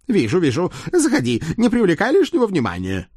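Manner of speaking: high, conspiratorial talking horse. Acted. Horse Centurion's put-on voice.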